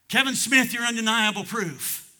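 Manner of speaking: high, loud pulpit proclamation; ringing preacher's shout; calling out. Real, not acted. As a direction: proclaim it straight at one listener. Preacher calls out a congregant.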